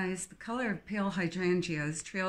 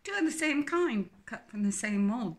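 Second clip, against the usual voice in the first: put-on lightly English accent; 3 semitones higher than usual. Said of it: "her English accent strong".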